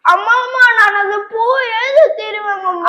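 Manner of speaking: put-on a child's tearful plea to his mother; a touch of a crying kid; whining child crying. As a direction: beg through mock sobs. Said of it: "நீ அழுதினா என்ற மனசே தாங்காது".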